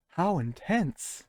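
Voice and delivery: deadpan mock drama; sarcastic. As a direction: drag it out with fake suspense.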